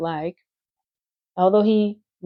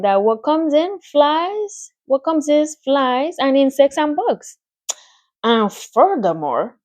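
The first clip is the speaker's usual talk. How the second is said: Charlotte savouring her menu, rising higher; relishing spider; 4 semitones higher, 3 dB louder than usual. Acted. Charlotte lists her favourite foods to Wilbur, relishing. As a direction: list each bug like a delicacy.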